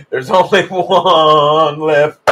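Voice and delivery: very slow, drawn-out mock doom; mock-ominous. Teasing viewers that one neck remains, slow mock-ominous drawl. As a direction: stretch it out like a movie trailer.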